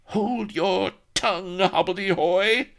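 high, irritated noblewoman silencing a servant; grating rebuke. A narrator's reading. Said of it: "grated Vanity".

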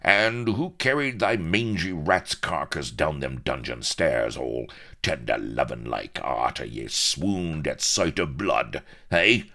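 indignant howl. Acted. Outraged pirate berates the man he carried, indignant howl. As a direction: rail at the ingrate, swelling to a loud finish. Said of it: "howled Firebeard".

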